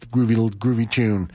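usual speaking voice

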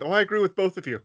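lightly hammed-up agreeableness; mock agreeable. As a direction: play a cartoon go-between siding with everyone. France placating both quarrelling countries.

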